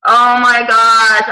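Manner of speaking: drawn-out, loud oh my gosh; exasperated disbelief. Retold or imitated. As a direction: groan it slowly in mock dismay. Retelling shock at long workout.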